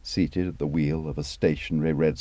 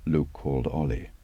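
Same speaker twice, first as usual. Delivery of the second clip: ordinary delivery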